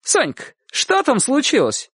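high questioning call. A narrator's reading. Neighbour woman to Sonka across yard, calling out. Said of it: "и крикнула".

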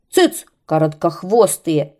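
loud angry shout; kite shouting. Acted. Kite shouts the birds down, loud and angry. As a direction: yell them down. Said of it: "крикнул змей".

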